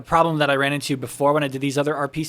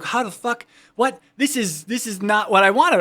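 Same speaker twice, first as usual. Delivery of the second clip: retold frustration; 5 semitones higher, 3 dB louder than usual. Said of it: "I was like".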